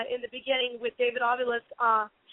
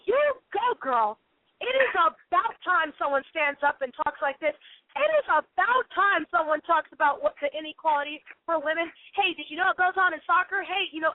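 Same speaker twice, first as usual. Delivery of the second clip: put-on high, excited girlfriend cheer; excited cheering women; 3 semitones higher than usual. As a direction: cheer her on like a fan.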